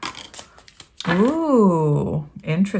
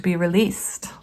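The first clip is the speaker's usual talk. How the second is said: whisper; 4 dB quieter than usual. Acted. Whispered end of tarot reading.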